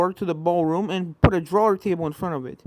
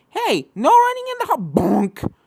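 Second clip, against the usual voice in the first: scolding call cut short; 10 semitones higher, 7 dB louder, slower than usual. Acted. Cut off by a bat.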